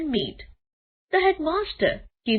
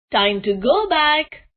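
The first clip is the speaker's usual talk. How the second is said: calling out; 5 semitones higher, 6 dB louder than usual. A narrator's reading. Teacher calls children home.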